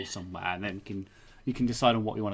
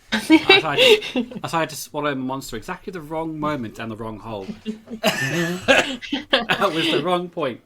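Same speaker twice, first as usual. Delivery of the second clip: giggling while trying to get words out; breaking up mid-sentence; laughing through it; 3 semitones higher, 7 dB louder than usual. Real, not acted. Host on the podcast laughing after burping and coughing.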